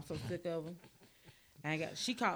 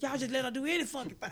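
mock whisper; 6 semitones higher, 4 dB louder than usual. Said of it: "I said".

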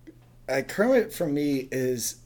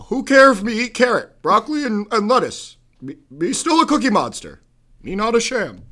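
Obama cadence reading Cookie Monster tweets; 5 semitones higher, 4 dB louder than usual. Pretend. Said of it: "Cookie Monster's Twitter in my Obama impersonation".

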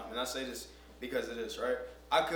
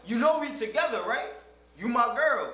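mock pleading boyfriend; 10 semitones higher, 7 dB louder than usual. Quoting what you must say.

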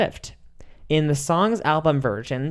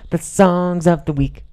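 announcer voice; 4 semitones higher, 5 dB louder, slower than usual. Pretend. Announcing the segment title.

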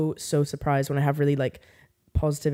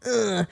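higher-pitched scornful "ugh"; imitated dismissive groan; 5 semitones higher than usual. Retelling the rugby guy brushing her off, mock dismissive groan. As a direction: groan it like someone who couldn't care less.

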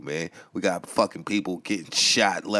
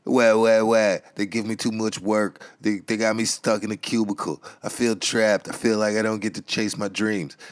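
whiny complaining. Retold or imitated. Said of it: "all you do is fucking complain because".

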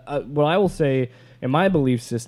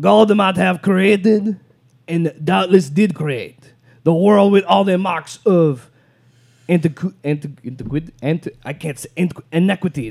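put-on offensive French accent; 4 semitones higher, 5 dB louder than usual. Reading a French author's quote aloud, in an exaggerated French accent. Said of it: "I should do it in a French accent".

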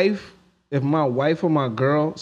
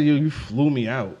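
mock cringe line; 6 semitones lower than usual. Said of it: "I'm not about to say".

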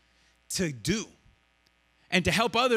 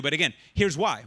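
usual speaking voice

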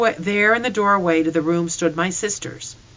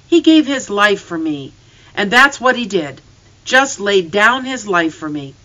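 louder, rising distress; impassioned grief; 3 semitones higher, 7 dB louder than usual. A narrator's reading. Boy to father about his dead dog, anguished. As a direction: protest the loss with mounting feeling.

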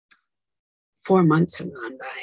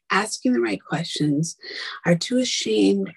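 hushed and intense; whispered angry rant. Retold or imitated. Scolding the doctor's partner, in a fierce whisper. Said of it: "I was so mad that I said".

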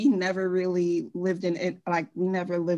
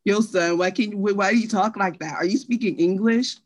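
louder, mildly hostile imitation of teasers; mocking teasers; 2 semitones higher, 4 dB louder than usual. New York kids teasing her accent, mild mock scorn. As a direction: lightly act out a scornful challenge, a bit louder. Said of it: "for me, they're like".

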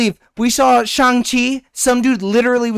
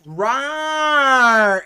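deep distorted monster roar; 4 semitones higher than usual. Retold or imitated. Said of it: "the fucking dragon woke up and was like".

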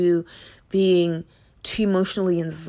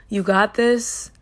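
encouraging; 3 semitones higher, 4 dB louder, slower than usual. Shown as a demonstration. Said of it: "all I'm gonna say is".

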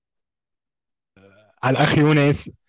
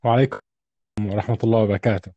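faint, distant, thin-sounding voice; weak thin voice; 5 semitones lower, 3 dB quieter than usual. Real, not acted. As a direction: speak weakly, as if far from the mic. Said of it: "صوتك ضعيف نوعًا ما".

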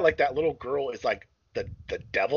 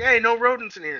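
shopkeeper scolding; 11 semitones higher, 4 dB louder than usual. Retold or imitated. Pizza guy voiced in retelling.

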